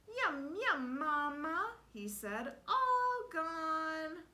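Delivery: put-on high, loud, happy babyish voice. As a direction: chirp it like a content toddler. The speaker voices the baby.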